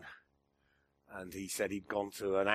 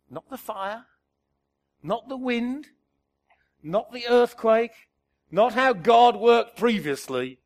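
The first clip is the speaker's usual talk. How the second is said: rising louder with each not; building to loud; 11 semitones higher, 15 dB louder than usual. Acted. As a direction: swell from firm to booming. Listing the loud forces.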